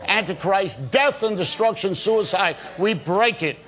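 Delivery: a fervent prayer, rolling through the list of curses; breaking curses over the viewers in a preacher's prayer; deliverance prayer. Real, not acted. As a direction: pray it over the viewers with conviction. Leads a prayer on air.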